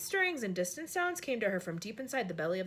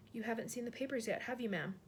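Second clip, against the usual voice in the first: softer, hesitant maid; a maid edging toward bad news, softer; timid maid; 5 dB quieter than usual. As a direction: break the news gently. Maid's subdued voice.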